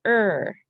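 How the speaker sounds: Er said alone as a spelling sound. Shown as a demonstration. Teacher sounds out the second syllable. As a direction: sound out Er clearly. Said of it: "Second syllable".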